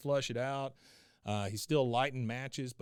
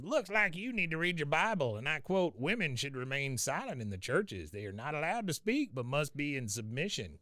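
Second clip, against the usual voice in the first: Cotton quoting; 3 semitones higher than usual. Retold or imitated. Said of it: "He goes".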